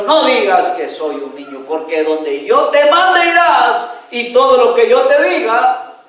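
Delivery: mild stern rebuke, slowing down; a father-like God firmly correcting; God scolding Jeremiah, stern and measured. Acted. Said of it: "Dios lo regañó".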